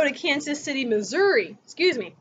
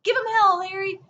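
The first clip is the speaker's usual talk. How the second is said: crowd cheer; 5 semitones higher than usual. Retold or imitated. Crowd cheering Truman on the campaign trail, mock yelled. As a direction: holler it like a happy supporter. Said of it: "people are hooping and hollering".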